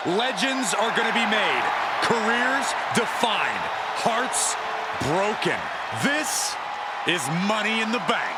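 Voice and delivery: portentous phrases set apart by pauses; dramatic event hype. Real, not acted. Commentator hyping Money in the Bank, dramatic tagline delivery. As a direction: build up to the event's name, beat by beat.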